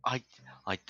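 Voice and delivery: low voice, stammering on every word; stuttering. Acted. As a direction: stammer through it nervously.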